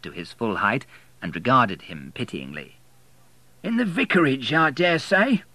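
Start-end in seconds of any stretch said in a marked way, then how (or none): 3.6-5.4 higher, condescending warden voice; pitying old warden; church warden. A narrator's reading. Church warden pityingly answering William, condescending.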